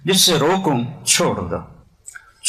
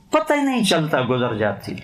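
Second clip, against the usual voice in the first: ordinary talk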